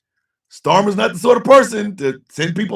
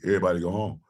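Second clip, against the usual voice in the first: mocking Mike Johnson; 10 semitones lower, 10 dB quieter, much faster than usual.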